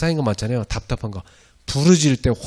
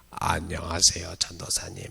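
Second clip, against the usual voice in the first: hoarse voice; 6 semitones lower, 7 dB quieter than usual. Retold or imitated. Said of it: "목을 다 망가뜨려".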